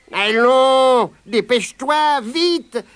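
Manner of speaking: high, quick rabbit voice urging his friend on; hurried rabbit. Acted. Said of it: "disait compère Lapin".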